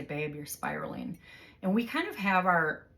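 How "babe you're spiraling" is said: calm. Retold or imitated. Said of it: "he'll s-, speak real calmly to me".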